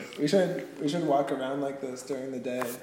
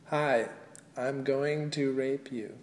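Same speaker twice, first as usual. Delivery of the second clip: plain American accent model line; standard American accent; 6 dB quieter than usual. Shown as a demonstration. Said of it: "Say something as in a standard American accent".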